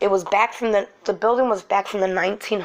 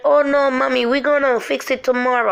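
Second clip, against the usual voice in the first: higher, louder mock super voice; imitated brush-off; 5 semitones higher, 3 dB louder than usual. Super putting off a frantic mother, imitated brush-off. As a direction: mimic the super putting her off.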